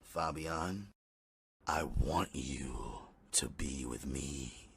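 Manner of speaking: soft slow whisper. Acted. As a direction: breathe it close and slow. Whispered lovers' plea in bed.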